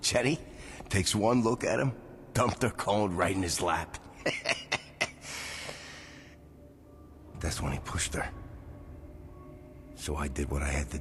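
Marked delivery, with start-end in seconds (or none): 4.0-6.0 soft, drawn-out chuckle; quiet laugh to himself. Acted. Laughs at his own memory.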